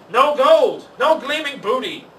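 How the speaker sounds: loud, high outraged pirate roar; furious pirate. A narrator's reading. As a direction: bellow in frustration at the empty loot.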